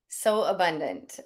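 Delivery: words stretched by a yawn; speaking through a yawn. Real, not acted. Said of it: "it's making me yawn".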